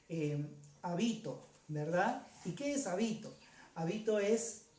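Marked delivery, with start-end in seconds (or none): 0.8-1.5 habito with the middle BI stressed; stress on the middle syllable. Shown as a demonstration. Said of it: "Ya no le pongo ni en la A ni en la O". 2.9-3.3 habito stressed on BI, the middle syllable. Shown as a demonstration. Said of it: "Ya no le pongo ni en la A ni en la O".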